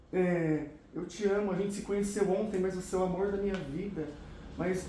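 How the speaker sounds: put-on a hushed, clingy boy confessing love to a girl he just met; clingy lovesick guy. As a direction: play the needy guy pleading over the phone. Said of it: "eu vou mostrar uma cena aqui".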